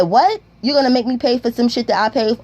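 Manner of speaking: high, incredulous outburst that drops back down; the friend can't believe he has to pay; retold shock. Told he must pay for his own gun, a high shocked outburst.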